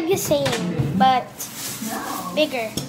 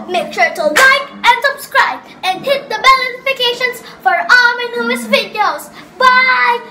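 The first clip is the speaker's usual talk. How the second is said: excited outro; 4 semitones higher than usual. Acted. Kid's sing-song outro.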